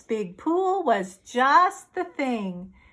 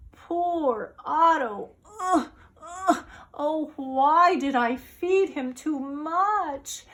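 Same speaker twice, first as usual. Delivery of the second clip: slow, mock sobbing boy; sad boy; 3 semitones higher than usual. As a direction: whimper over the poor fish. Boy sad about fish.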